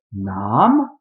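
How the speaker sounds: "nam" appuyé, plus fort; insistance sur nam. Shown as a demonstration. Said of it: "on insiste". ("nam" martelé avec insistance)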